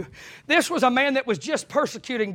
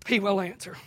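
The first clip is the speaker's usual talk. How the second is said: softer, lower repeat; soft echo; 4 semitones lower, 7 dB quieter than usual. Real, not acted. Preacher echoing his promise to the congregation, soft and low. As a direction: let it fall to a quiet certainty.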